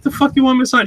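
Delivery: high, loud baffled question; retold incredulity. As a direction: throw it back in comic disbelief. Incredulous at signing request.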